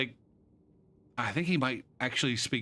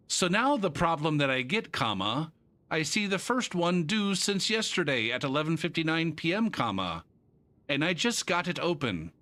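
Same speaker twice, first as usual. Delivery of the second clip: reading student email; 3 semitones higher than usual. Retold or imitated. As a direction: recite his plea with amused care. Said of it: "He's sending me an email".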